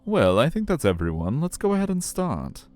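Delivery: high, sing-song customer-service voice; friendly aquarium guide. Acted. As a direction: greet kids in a high, chirpy guide voice.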